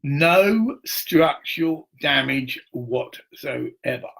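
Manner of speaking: slow, deliberate radio-bulletin read; mock official announcement. Telling viewers about the fire, mock slow official bulletin. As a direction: announce it like a formal dispatch, slowly.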